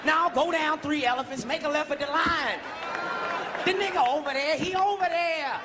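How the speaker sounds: lightly put-on African accent, slowing at the end; a hint of an African accent giving directions; mock African directions. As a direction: play a villager pointing the way.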